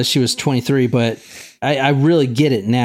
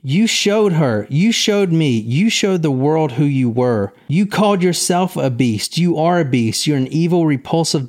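mild accusing quote; 2 semitones higher than usual. Retold or imitated. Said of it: "says stuff like, quote".

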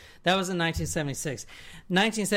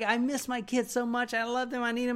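retold mother's plea, pitched higher; higher, mildly imploring voice; imitating pleading mother; 6 semitones higher than usual. Ex-wife begging to see her kids, mildly pleading. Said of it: "a mama needing her little lobsters".

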